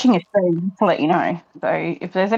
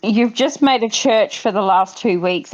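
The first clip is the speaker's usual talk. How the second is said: slow clear repeat. Real, not acted. Repeats after "Sorry, what?.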